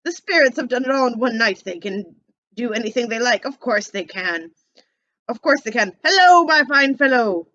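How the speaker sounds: put-on old Scrooge, loud and giddy with joy. Scrooge calling out in delight on Christmas morning. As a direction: bounce the words out like a thrilled old man.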